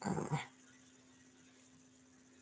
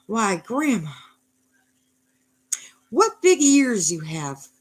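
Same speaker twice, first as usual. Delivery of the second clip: put-on wondering girl voice, pitched up; Little Red; 4 semitones higher, 4 dB louder, slower than usual. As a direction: marvel slowly at what you see, voice raised.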